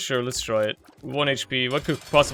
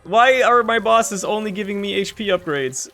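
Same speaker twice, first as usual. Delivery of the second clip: indignant outburst; 5 semitones higher than usual. Real, not acted. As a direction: throw it out at the screen in disbelief. Gamer angry at boss rewards.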